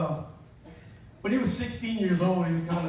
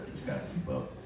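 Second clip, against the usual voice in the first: deep mock voice; 10 dB quieter, faster than usual. Shown as a demonstration. Comedian repeating to audience in deep mock voice. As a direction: keep up dropped very low and quiet.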